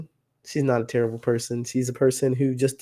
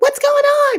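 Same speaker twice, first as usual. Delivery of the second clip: really high, shrill, intense hair-raising cry; 7 dB louder than usual. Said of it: "Like with a really high pitched".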